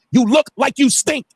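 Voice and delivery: "You look like you stink" drawn out slow and high; mocking the insult word by word; slow scornful repeat. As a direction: spell it out slowly in disbelief. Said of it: "Let that sink in".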